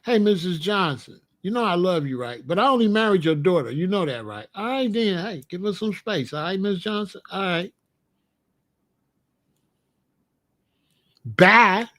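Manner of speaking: polite sweet talk to a mother-in-law; kindly but firm, easing her toward the door; nice goodbye to mother-in-law Missus Johnson. Retold or imitated. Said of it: "I'll say it in a nice way".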